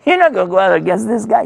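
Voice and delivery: high-pitched, dismissive objection; incredulous soldiers. Retold or imitated. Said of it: "They said".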